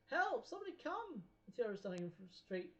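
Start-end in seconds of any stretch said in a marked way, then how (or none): 0.1-1.2 shout for help. Acted. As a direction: yell it out for help. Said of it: "someone outside shouts".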